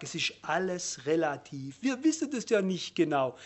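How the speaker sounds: low, mock voice of a relativist; mocking quote. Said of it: "wenn man dem sagt".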